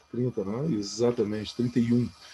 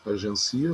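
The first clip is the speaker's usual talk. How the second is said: "Agencia" as a-gen-CI-a; stress on CI; slower than usual. Shown as a demonstration. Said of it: "Como é que são essas palavras sem acento". ("Agencia" com a tônica no CI)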